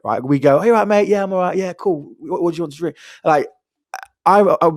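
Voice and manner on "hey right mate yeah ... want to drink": autopilot greeting. Retold or imitated. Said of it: "men are on autopilot".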